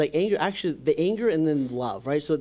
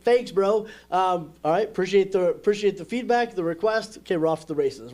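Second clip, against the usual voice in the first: breezy brush-off; 4 semitones higher, 4 dB louder than usual. Retold or imitated. Answering his judger voice.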